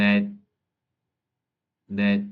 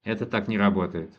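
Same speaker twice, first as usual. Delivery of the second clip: quicker, natural run-through with the weight on не; natural speed; faster than usual. Shown as a demonstration. Teacher repeating the sentence at natural speed for a student, brisk. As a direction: say it fast and natural, as a native would. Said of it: "teacher repeats at natural speed".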